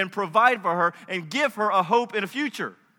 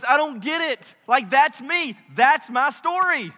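high, overwrought disbelief; baffled protest; 4 semitones higher, 4 dB louder than usual. Acted. Ruth seeing herself as undeserving, baffled protest. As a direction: pitch up, insistent on each phrase. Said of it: "That sounded horrible".

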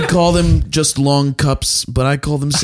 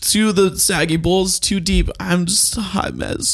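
hot mess; 6 semitones higher than usual. Acted. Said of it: "He flipped over hot mess".

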